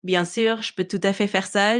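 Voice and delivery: put-on French with a light Québécois accent; a touch of Quebec in the French; Quebecer accent. Assistant asked to sound like people from Quebec, light Québécois accent. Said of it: "Can you speak with a Quebecer accent".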